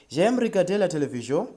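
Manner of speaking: "J'aime regarder la télévision" modelled in French, running briskly; French pronunciation. Shown as a demonstration. Teacher gives learners a model sentence, "J'aime regarder la télévision" pronounced in French. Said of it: "That's how you pronounce that".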